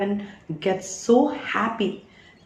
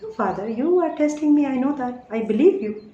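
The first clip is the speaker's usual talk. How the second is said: higher, quick protest to Father; retold earnest pleading; 4 semitones higher than usual. Speaker re-enacting her old talks with Father, earnest pleading. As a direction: re-enact an insistent, trusting appeal to God. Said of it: "I used to talk like this".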